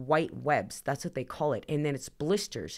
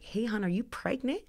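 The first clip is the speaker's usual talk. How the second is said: prying coworker; 6 semitones higher, 4 dB quieter than usual. Retold or imitated. New boss asks about pregnancy.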